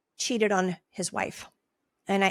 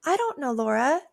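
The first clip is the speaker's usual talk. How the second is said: a reflex reply, pitched up; higher voice; 5 semitones higher than usual. Acted. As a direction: toss it out in a raised, reflexive voice. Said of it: "that's a higher voice".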